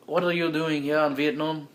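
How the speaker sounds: reworked attempt at French accent. Frenchman questioning the American, attempted French accent. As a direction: try the French accent, carefully. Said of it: "That's, that's not French".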